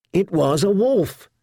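insist, shouting them down; shouted. A narrator's reading. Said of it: "she shouted at them".

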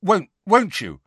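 high, halting question; falter, seeking confirmation; uncertain. A narrator's reading. Boy checking with Harry as their eyes meet, uncertain. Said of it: "he added uncertainly".

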